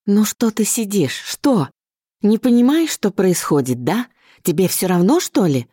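a desperate mother berating her daughter; frantic mother. Acted.

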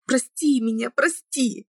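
high, begging plea; imploring. A narrator's reading. Girl pleads with her lover again, high imploring voice. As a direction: plead with everything you have. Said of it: "умоляюще взглянула".

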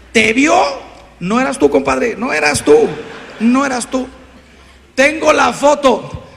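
loud insistent back-and-forth; hammed-up denial scene; mock denial. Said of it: "acted denial exchange".

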